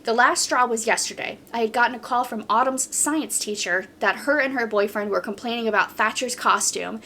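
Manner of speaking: even, flowing reading of a post; story read-aloud. Acted. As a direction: read the account straight through, steadily. Reads a submitted story aloud.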